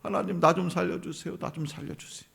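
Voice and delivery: soft, pleading prayer; a quiet acted cry to God; hushed plea. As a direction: beg quietly for help. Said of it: "막 부르짖어요".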